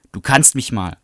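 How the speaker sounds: loud defiant snap back; rude retort. Acted. Bradley snapping back at Melinda, loud and rude. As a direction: throw it back at her.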